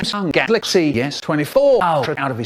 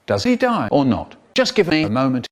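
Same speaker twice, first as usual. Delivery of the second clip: normal talking voice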